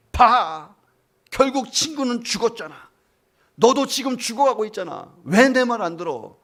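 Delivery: an angry commander screaming; angry shout. Retold or imitated. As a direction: yell at the soldier for disobeying. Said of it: "이렇게 소리치는 부대장".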